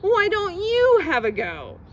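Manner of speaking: high, loud desperate plea; shouted pleading. Acted. Child begging mom not to see the dentist, loud pleading yell. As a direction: beg loudly in a panic. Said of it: "I shouted".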